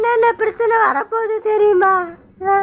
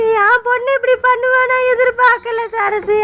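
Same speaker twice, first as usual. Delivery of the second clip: tearful disbelief. Acted. Mother grieves her daughter's choice.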